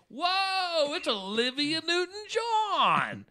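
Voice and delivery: high, thrilled starstruck exclamation; excited recognition. Retold or imitated. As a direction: announce her name like spotting a star. Excited host recognizes a singer.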